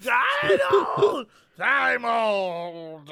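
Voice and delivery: put-on high squeaky drunk cry; squeaky drunk whine. Drunk character replies.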